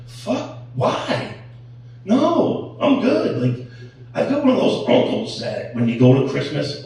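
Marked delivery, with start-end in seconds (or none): 0.1-3.4 reluctant refusal. Retold or imitated. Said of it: "I'm like".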